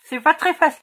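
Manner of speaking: talking around a pen cap held in the mouth. Real, not acted. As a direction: mouth full with a marker cap, words muffled. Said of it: "parler avec le bouchon dans la bouche". (avec le bouchon du feutre dans la bouche)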